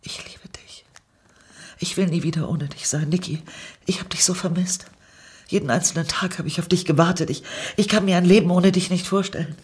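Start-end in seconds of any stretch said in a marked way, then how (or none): 1.8-9.5 hohe, drängende Stimme, immer eindringlicher; aufgewühlte Liebeserklärung. A narrator's reading. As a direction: ihr atemlos das Herz ausschütten. Tränenreiche Liebeserklärung an Niki. (flehend und aufgewühlt, deutlich höher)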